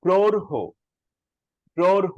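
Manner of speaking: প্রৌঢ় as prourh-ho, high and loud; aspirated ending. Shown as a demonstration. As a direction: push breath out after the flap in প্রৌঢ়. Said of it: "একটা হো আছে".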